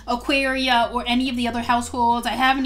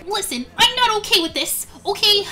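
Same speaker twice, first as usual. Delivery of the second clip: high, insistent objection sinking at the end; hurt protest; 4 semitones higher than usual. Acted. Layla objecting to Multi and Ravinia, hurt protest. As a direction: plead your case, insistent then deflated.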